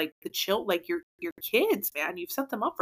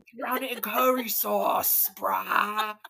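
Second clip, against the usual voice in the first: hammed-up British foodie; exaggerated put-on British voice; mock British accent; slower than usual. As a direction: gush in a fake British accent. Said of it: "You can talk British".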